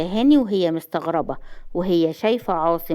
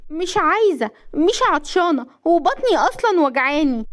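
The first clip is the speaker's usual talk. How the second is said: high-pitched, plaintive excuses; whining refusal; 8 semitones higher than usual. A narrator's reading. Wife refusing juice with excuses, plaintive. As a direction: wriggle out of it plaintively.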